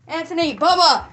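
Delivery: high, very loud calling out; alarmed shout. Acted. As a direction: cry out the names in alarm. Calling out to the stabbed man.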